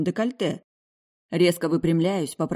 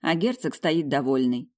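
usual speaking voice

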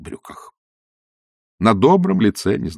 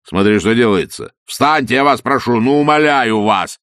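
pleading; 2 semitones higher, 5 dB louder than usual. Acted. Engineer begging priest to rise.

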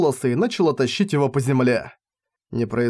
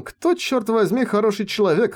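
inner shout; 8 semitones higher than usual. A narrator's reading. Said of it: "хотелось закричать Клаусу".

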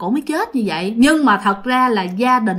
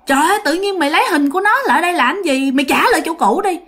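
quick, higher-pitched retold telling-off; annoyed scolding; 5 semitones higher, faster than usual. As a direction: scold a foolish friend, fast. Father tells off drunk friend. (giọng trách mắng nhanh, bực bội)

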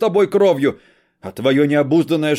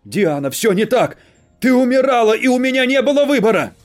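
desperate shout; 2 semitones higher, 10 dB louder than usual. Acted. Husband shouting defence.

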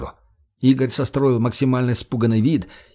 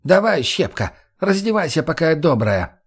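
menacing woman; 5 semitones higher than usual. Acted. Svetik threatening Margo.

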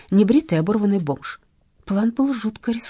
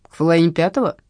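surprised; 5 dB louder, faster than usual. Acted. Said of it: "удивлённо прервал меня бандит".

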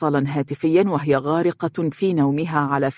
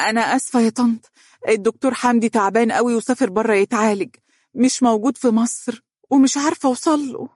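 higher, regretful apology; sorrowful; 7 semitones higher, faster than usual. A narrator's reading. Dunya gives the mother a false excuse, sorrowfully. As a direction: break bad news with regret. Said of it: "وقالت لها بأسى".

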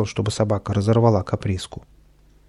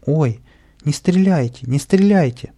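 higher, pleading alarmed cry; frightened cry; 4 semitones higher, 4 dB louder than usual. Acted. A girl begging the sergeant not to shoot, frightened cry. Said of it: "Одна девочка вскрикнула".

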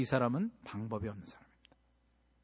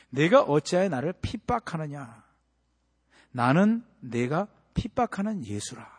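solemn slow voice; slower than usual. Acted. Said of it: "자기 자신을 소개하시는데".

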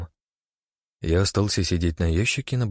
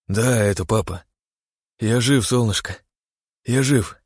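tearful joy on the phone; crying on the phone; 4 semitones higher, 4 dB louder than usual. A narrator's reading. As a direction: choke up with happy tears. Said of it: "По его щеке скатилась слеза".

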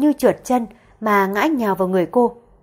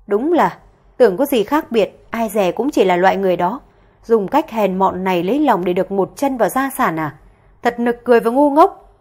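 mild mock sneer, loudest on the last words; sneering insult. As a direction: cut her down with contempt. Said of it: "tiếp tục nói lời khó nghe".

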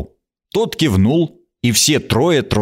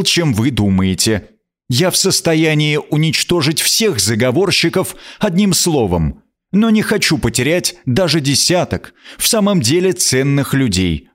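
higher, stately queen's voice; regal; 4 semitones higher than usual. Acted. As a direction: speak as a gracious but commanding queen. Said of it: "Она произнесла царственно".

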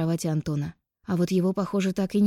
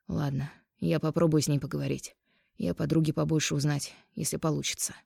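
задумчиво. Acted. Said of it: "отвечает он задумчиво".

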